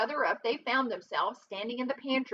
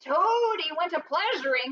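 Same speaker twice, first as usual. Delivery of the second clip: much higher and louder yell; 6 semitones higher, 5 dB louder than usual. Acted. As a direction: hurl the words back at the weasels. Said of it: "he yelled".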